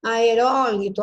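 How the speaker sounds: aerólito with a strong ró; antepenultimate stress. Shown as a demonstration. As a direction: hit the third-last syllable of aerólito. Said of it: "O acento vai na antepenúltima". (aerólito com o ró forte)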